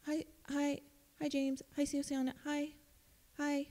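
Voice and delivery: high, soft cutesy hellos; cutesy soft greeting. Retold or imitated. Counselor imitating her texts to students, soft and cutesy. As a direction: coo the names sweetly up high. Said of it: "sometimes I text my students".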